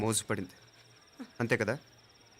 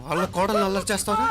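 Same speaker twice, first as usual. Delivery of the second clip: higher, heated challenge; raised-voice indignation; outraged; 7 semitones higher, 4 dB louder than usual. Acted. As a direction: throw the question out angrily. Outraged rebuke of accuser.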